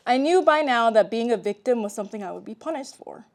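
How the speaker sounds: measured read-aloud delivery; memoir narration. A narrator's reading. Author reads childhood memoir to an audience, measured narration. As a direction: read your own story to an audience.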